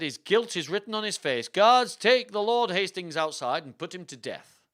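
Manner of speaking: loud, high royal order; forceful theatrical condemnation; commanding king. Acted. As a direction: order the guards to execute him.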